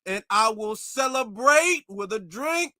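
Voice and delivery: slow, exaggerated proper-talking impression; mock proper voice. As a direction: overdo a stilted, formal way of talking. Mocking an overly proper speaker.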